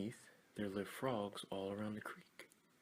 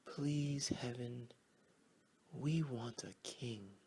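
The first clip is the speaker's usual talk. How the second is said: first prayer; 3 semitones higher, slower than usual. Acted. Frogs say their first prayer to heaven, humble. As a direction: pray it humbly. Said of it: "Frogs started to say their prayers".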